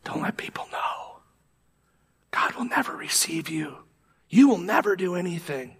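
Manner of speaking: hissing whisper, then voiced at the end; whispering enemy. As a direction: breathe it like a sly accuser. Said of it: "Or is it whispering".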